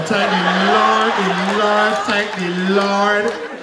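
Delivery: slow, lightly mimicked pious refrain; religious grandmother. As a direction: draw out "Lord" like a devout granny giving praise. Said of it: "always relates the conversation back to God".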